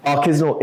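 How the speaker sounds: "Artisanal" said carefully as AR-ti-sa-nal, with a slight rise; correct pronunciation of artisanal. Shown as a demonstration. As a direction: demonstrate "Artisanal" clearly, stressing the first syllable AR. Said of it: "is artisanal the correct pronunciation".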